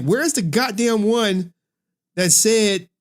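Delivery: half-serious exasperated demand; retold annoyance. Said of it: "I was about to get pissed off".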